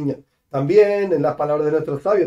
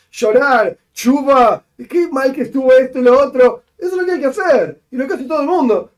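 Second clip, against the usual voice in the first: mock wailing; 7 semitones higher, 3 dB louder than usual. Mocking Yom Adin weeping.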